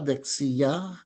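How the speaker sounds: "dexia" rising gently to its final syllable; rising accent. Shown as a demonstration. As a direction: lift the end of "dexia". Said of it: "medyo pataas siya".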